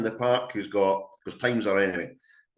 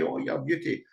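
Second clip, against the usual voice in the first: excited praise; 6 semitones higher than usual. Shown as a demonstration. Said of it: "get all excited like a ten-year-old".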